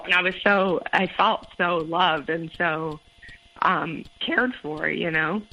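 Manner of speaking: teary, slow, holding back tears; after crying. Real, not acted. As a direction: voice choked up, slowing down. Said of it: "Sorry, I'm getting teary already".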